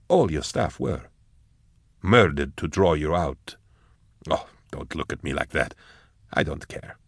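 softly voiced, measured figure; understated, quiet character voice; figure speaking to Eisenhorn. Telling a listener they were bait, quietly measured.

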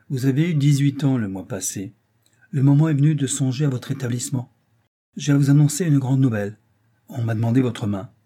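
a hint of a self-important father addressing his daughter; oratorical father. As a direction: announce it as a great occasion. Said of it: "méditait un effet oratoire".

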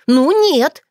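high, loud indignant protest; girl refusing to be sent home, indignant. A narrator's reading. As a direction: flare up in outrage. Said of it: "возмутилась она".

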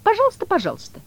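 very high, loud and fussy; cat's squeaky reply. Acted. The cat answering Woland, squeaky and fussy. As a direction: squeal it out eagerly.

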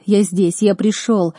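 usual speaking voice

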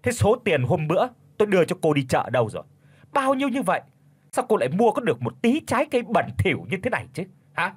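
high, fast accusing questions; spiteful interrogation. Acted. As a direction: grill her with bitter suspicion. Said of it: "hằn học hỏi vặn lại". (mẹ chồng hằn học tra hỏi con dâu, giọng cao)

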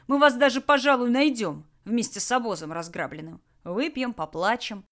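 lazy threatening boss voice; gruff bandit boss. Acted. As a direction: bandit leader menacing his prisoners. Tolyan mocks and threatens.

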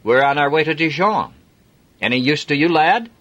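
hearty Yorkshire driver; broad Yorkshire accent. Acted. Jim offering Adam a lift, broad Yorkshire accent. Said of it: "in a broad Yorkshire accent".

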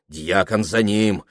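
usual speaking voice

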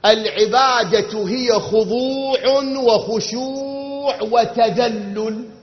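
very slow, loud, word by word; slow emphatic definition. Shown as a demonstration. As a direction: spell out the definition like a teacher, very slowly. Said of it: "تعريف العبادة شنو؟". (تعريف بطيء جداً وبصوت عالٍ كلمة كلمة)

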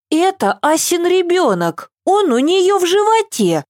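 put-on high little girl voice; explaining child. A narrator's reading. Eva explaining to grandma, innocent child voice. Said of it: "объяснила Ева".

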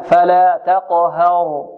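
تقهر with a clear open a on ه, slowly chanted; correct open fatha. Shown as a demonstration. Teacher correcting the tilted vowel for students, open fatha. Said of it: "تقليل، لا".

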